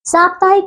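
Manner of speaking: साप्ताहिक as wrongly written or as corrected, syllable by syllable; mispronounced word. Shown as a demonstration. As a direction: sound out साप्ताहिक carefully. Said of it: "साप्ताहिक नहीं होता".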